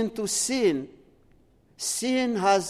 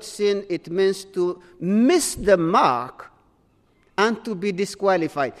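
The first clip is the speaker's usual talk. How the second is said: slow, deliberate definition. Shown as a demonstration. Preacher defining sin for the congregation, slow and deliberate. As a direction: spell out "miss the mark" slowly, word by word. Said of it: "very important".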